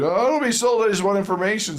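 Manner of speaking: high, pushy no, I don't wanna be sold; resisting caller. Retold or imitated. Caller refusing to be transferred to sales, high and resistant. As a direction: push back at the salesperson. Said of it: "You're like".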